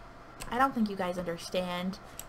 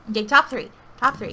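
excited shout; 11 dB louder than usual. Real, not acted. Excited at reaching top three.

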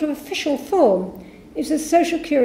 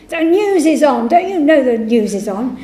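irritated father; 5 dB louder than usual. Retold or imitated. Irritated father answering phone.

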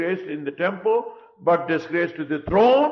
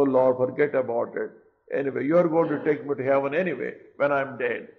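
lower, a careless king shrugging off his sin; king brushing God off; 3 semitones lower than usual. Retold or imitated. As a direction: play it glib, waving God away. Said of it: "He could talk like that".

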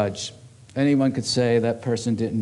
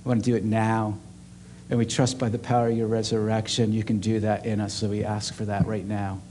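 prayer; 2 semitones lower than usual. Acted. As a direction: pray gently over the room. Leads a closing prayer.

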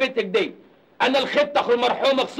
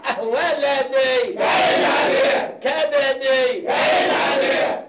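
mock wailing; slower than usual. Mock wailing over brother.

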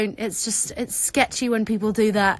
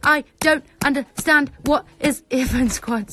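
overwhelmed shouting; 3 semitones higher, 8 dB louder than usual. Real, not acted. Streamer overwhelmed by the fan squad, shouting disbelief. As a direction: hammer out each word in excited disbelief.

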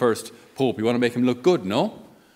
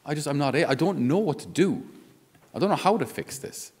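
helpless despair; 5 semitones higher than usual. Retold or imitated. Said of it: "you just come to this point where".

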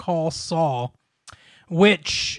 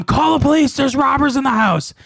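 mock scream for help, raised pitch; half-hearted yell in alarm, higher; retold panicked scream; 6 semitones higher than usual. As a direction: imitate a panicked cry to mom. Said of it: "he started screaming to his mom".

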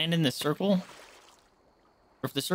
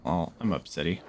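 put-on baby voice; 10 semitones lower than usual. Baby-talk pout over lost fish.

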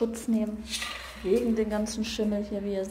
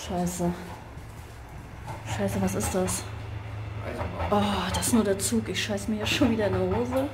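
startled. Real, not acted. Startled by a train noise.

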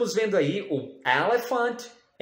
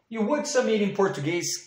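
higher, quick pupil voice; mock pupil asking; 6 semitones higher, much faster than usual. Teacher plays a pupil asking the meaning. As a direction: ask like a curious child.

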